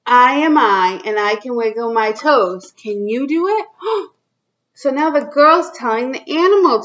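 put-on reading to children. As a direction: read it out to little kids, drawing each line out. Reads picture book to kids.

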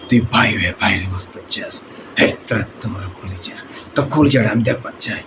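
Misha-style villain voice; odd rasping film baddie; movie villain. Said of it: "ব্যতিক্রম স্টাইলে এবং ব্যতিক্রম কণ্ঠে".

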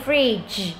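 "fridge" with its closing "j" sound clearly released; final consonant sounded. Shown as a demonstration. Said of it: "phụ âm cuối này". (đọc rõ phụ âm cuối "j" của "fridge")

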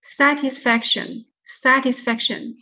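slow "satisfaction", second stress on "sa", main on "fac"; stress demo. Shown as a demonstration. Teacher models the word for students, slow stressed demo. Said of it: "这里就是首重音了".

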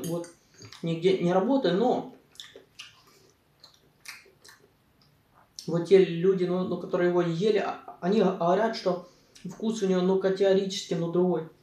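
talking between bites; eating salad while speaking; mouth full, chewing. Real, not acted. Seen 3: Forkfuls of salad go to mouth throughout; lips look busy chewing.

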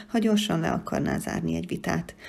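ordinary delivery

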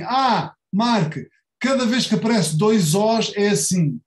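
lightly voiced eager student objection; a mild mock student protest; imitating a student. Teacher voicing students who object. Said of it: "vocês dizem assim".

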